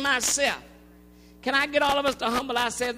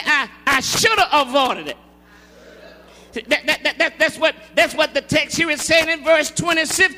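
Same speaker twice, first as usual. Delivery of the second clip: forceful call-and-response preaching; emphatic sermon delivery; 2 semitones higher, 6 dB louder than usual. Acted. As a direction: drive the point home to the congregation.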